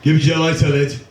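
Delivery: a hint of a Scouse lad asking for a light; lightly voiced Liverpool kid; young Scouser accent. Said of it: "young Scousers these days don't seem to talk like the rest of us".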